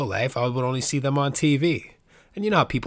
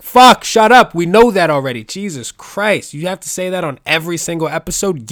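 loud, high mock outburst of annoyance; hammed-up exasperated yelling; exasperated listener; 5 semitones higher, 8 dB louder than usual. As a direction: play a fed-up listener shouting back.

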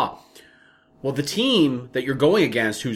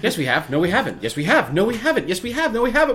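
rising higher with each retort; escalating bickering; 8 semitones higher than usual. Retold or imitated. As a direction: trade contradictions faster and higher. Acted back-and-forth bickering.

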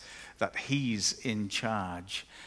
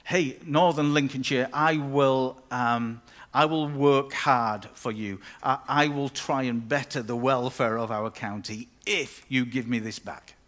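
louder, mock grand pledge to the county; bargaining pledge; 4 dB louder than usual. Preacher mocking a bargain with the county, louder. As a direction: declare it like a deal-making politician. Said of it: "It's not".

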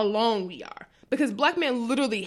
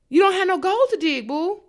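higher, louder sassy clapback; loud, pitched-up sass; sassy comeback; 7 semitones higher, 4 dB louder than usual. Real, not acted. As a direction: toss it back with attitude. Sassy retort.

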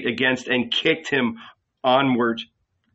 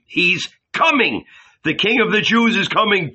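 high-pitched, excited street cry; crowd shouting; 8 semitones higher, 4 dB louder than usual. A narrator's reading. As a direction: call out the news, getting quicker.

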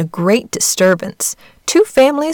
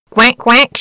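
quacking, a bit higher and louder; bright mock quack; duck call; 4 semitones higher, 4 dB louder than usual. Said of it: "she cried".

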